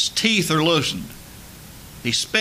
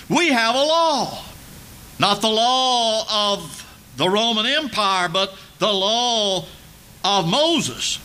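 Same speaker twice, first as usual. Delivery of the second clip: raised, higher voice of insistent accusers; accusing crowd; 4 semitones higher than usual. Retold or imitated. Preacher voicing the Jews' accusation to Pilate, raised and insistent. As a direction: press the charge hard, pitched up.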